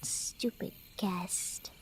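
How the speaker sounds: petulant whispered insult; muttered under breath. Acted. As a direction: grumble it to herself so he barely hears. Sulking cat mutters an insult.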